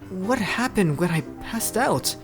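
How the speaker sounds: puzzled character line, drawn out; young Noi. Acted.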